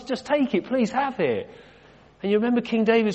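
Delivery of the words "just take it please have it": higher, eager insistence; eager offering. Acted. Field owner offering his land to the king, eagerly insisting. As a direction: press the gift on him.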